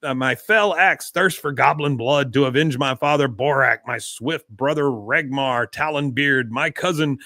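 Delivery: lightly voiced young troll warrior; a hint of a boastful dwarf; mild mock battle boast; Bobby as a troll. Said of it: "Bobby's voice coming out of him".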